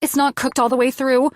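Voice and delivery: high, rising panic; panicked. A narrator's reading. Elena panicking over undercooked chicken, high and alarmed. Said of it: "all of my panicked nerves".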